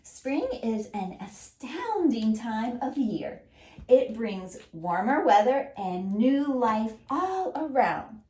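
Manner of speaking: put-on slow, even read-aloud for children; choral reading. Shown as a demonstration. Teacher leading children in reading the message aloud together. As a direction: read it slowly, word by word, so the class can follow. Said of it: "Let's read it together".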